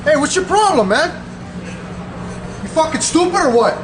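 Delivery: angry outburst. Real, not acted. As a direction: push the guy off, real fury. Angry at a stranger screaming.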